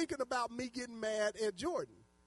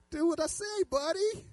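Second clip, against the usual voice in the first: high, insistent mock-angry order; exasperated parent's warning; mad parent; 9 semitones higher, 5 dB louder than usual. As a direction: press the child to obey, voice raised. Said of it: "'Cause I got mad".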